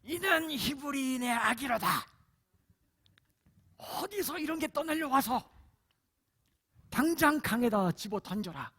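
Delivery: high, loud, cold princess ordering; harsh royal command. Shown as a demonstration. Preacher demos how a cruel princess would order the baby thrown away, harsh and loud. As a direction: sneer the order like a haughty princess. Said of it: "어떠한 보이스 톤으로".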